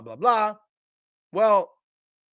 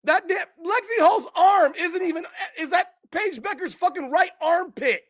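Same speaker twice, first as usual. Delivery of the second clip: higher, laughing through the words in disbelief; incredulous laughter; 5 semitones higher than usual. Real, not acted. Over a frozen frame of the shot, laughing in disbelief. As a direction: laugh at how absurd it is.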